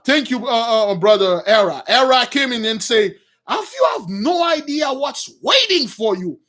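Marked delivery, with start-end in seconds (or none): 3.5-6.4 higher-pitched, dramatic retold warning; dire warning. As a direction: act out an ominous threat. Acting out Era's dire warning.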